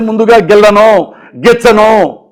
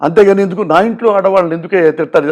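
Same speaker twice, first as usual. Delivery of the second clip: softer, hurt and pleading, a touch of tears; a mild, softer imitation of Chiranjeevi crying on the phone; imitating tearful plea; 4 dB quieter than usual. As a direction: quietly retell a friend's tearful complaint. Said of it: "కన్నీళ్ళు పెట్టుకుని మాట్లాడుతుంటే".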